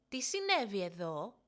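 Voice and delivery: surprised mother. Acted. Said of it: "ρώτησε έκπληκτη μητέρα".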